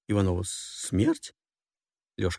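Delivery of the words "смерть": whispered, high questioning gasp; frightened whisper. Acted. Passenger whispering her fear to the stranger. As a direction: barely breathe the word out.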